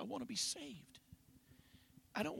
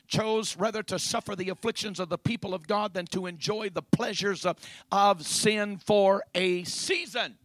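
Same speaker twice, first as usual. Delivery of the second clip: building preaching; 3 semitones higher, 10 dB louder than usual. Real, not acted. Preacher builds to scripture's climax.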